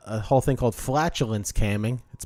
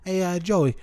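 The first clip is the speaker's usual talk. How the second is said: higher-pitched, hint of a grandma; lightly voiced Italian grandma; 6 semitones higher than usual. Grandma asking Joey for eggplant, lightly imitated. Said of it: "my little Italian grandma".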